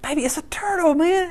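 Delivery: soft whispered reassurance. Retold or imitated. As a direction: hush her gently in a whisper. Husband whispers to wife.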